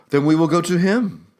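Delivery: put-on mother deciding to carry her baby to the doctor, resolute; Juana, determined. A narrator's reading. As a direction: say it cold and certain, like a lioness. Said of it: "Juana said".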